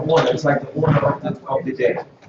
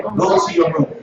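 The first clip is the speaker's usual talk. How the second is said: parent command. Shown as a demonstration. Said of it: "learn how to say stuff like that".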